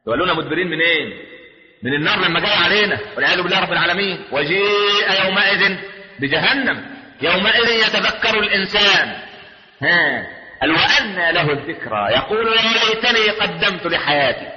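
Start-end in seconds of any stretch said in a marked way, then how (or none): 4.3-9.2 slow, stretched-out verse chant; Quranic recitation. Acted. Preacher reciting of Hell brought near, slow chant. 10.7-14.5 slow, elongated chanting; Quranic recitation. Acted. Preacher reciting man's regret, slow Quranic chant.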